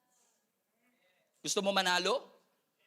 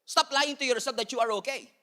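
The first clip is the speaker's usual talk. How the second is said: ordinary delivery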